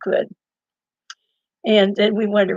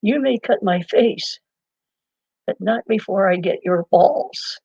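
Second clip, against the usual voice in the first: calm and cool; slower than usual. Retold or imitated. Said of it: "so calm and cool".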